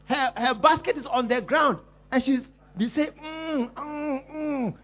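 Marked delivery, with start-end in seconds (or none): 3.2-4.7 mock groaning.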